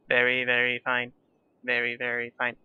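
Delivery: slightly mechanical, even delivery; robotic. Real, not acted. Streamer hearing herself sound robotic, mechanical. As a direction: say it like a flat machine readout. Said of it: "I sound like a robot".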